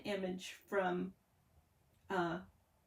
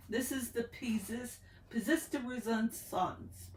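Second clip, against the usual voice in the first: slow, careful mock French pronunciation; hammed-up French on Pièce de Resistance; French accent attempt; 3 semitones higher, slower than usual. Shown as a demonstration. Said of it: "that's my last attempt to speak French".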